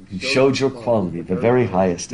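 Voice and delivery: teacher lingering fondly on a favourite line; tender re-reading. Shown as a demonstration. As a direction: savour it gently the second time. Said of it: "I just love that moment".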